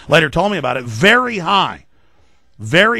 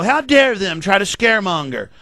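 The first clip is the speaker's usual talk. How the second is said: mock indignation; 2 semitones higher than usual. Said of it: "do I go".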